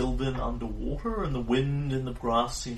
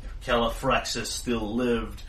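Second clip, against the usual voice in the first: mammoth voice; 3 dB louder than usual. Acted. Mammoth threatens.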